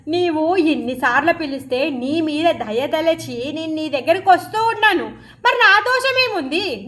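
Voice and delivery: lightly acted pleading protest, pitch rising; Gaurachandra remonstrating. Lord asking the brahmin what his fault is, lightly acted remonstrance. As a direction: gently take him to task, stretching the questions. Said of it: "గౌరచంద్రుడు అంటున్నాడు".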